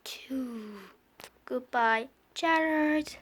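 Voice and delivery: whispered, soft farewell; sad whisper. Acted. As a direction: breathe a sad goodbye. Sad goodbye.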